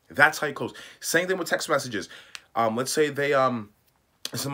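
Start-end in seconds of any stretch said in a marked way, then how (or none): 0.1-0.7 louder punchy repeat. Shown as a demonstration. Coach driving the point home, louder. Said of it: "That's how you close those guys".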